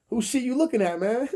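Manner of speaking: high, loud comic disbelief; mock indignant challenge. Comic challenging the judge over a mix-up, mock indignant. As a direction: shoot the question up high and loud, playfully outraged.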